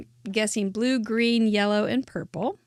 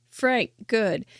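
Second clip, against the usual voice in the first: breathy whispered caveman clue. Shown as a demonstration. Giving a game clue in a hushed whisper. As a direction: whisper the word and its verdict.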